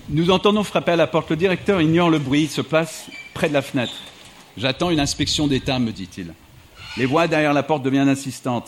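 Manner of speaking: measured literary reading voice; steady book-excerpt narration; reading aloud. Acted. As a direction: carry the audience through the scene like a storyteller. Reads an excerpt from his book.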